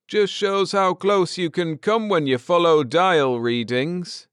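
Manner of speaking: pleased with himself; lightly voiced Ned. A narrator's reading. Husband to wife after landing, lightly voiced.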